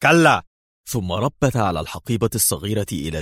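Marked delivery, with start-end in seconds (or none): 0.0-0.4 sharp, loud and high no; cutting Dan off with a sharp loud no; sharp interruption. Acted. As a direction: cut him off sharply. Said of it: "قاطعه ليفي في حدة".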